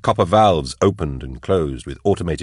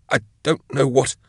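gasped; 8 semitones higher than usual. A narrator's reading. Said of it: "he gasped".

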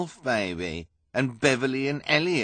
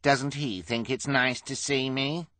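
high, slow mocking question; bully's drawn-out sarcasm; sarcastic; 7 semitones higher, 4 dB louder than usual. A narrator's reading. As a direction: feign hurt to taunt them. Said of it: "asked sarcastically".

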